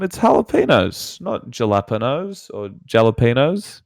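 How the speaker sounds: "jalapenos" said "hal-a-PEN-yos", the J as an H; correct Spanish pronunciation. Retold or imitated. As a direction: say "jalapenos" with an H sound, stress on PEN. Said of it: "I'm like to Mum".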